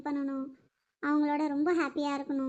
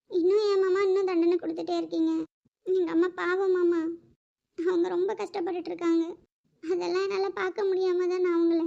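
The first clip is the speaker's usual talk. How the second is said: crying plea; 3 semitones higher, 3 dB louder than usual. Acted. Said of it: "சொல்லிட்டே இருக்கல்ல அழாதன்னு".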